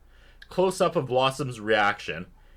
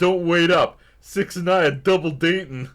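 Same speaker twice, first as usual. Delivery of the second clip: put-on louder, higher take on Blossom's accent; Blossom's accent, hammed up; imitating Blossom's accent; 6 semitones higher, 6 dB louder than usual. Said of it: "Again, Blossom's accent".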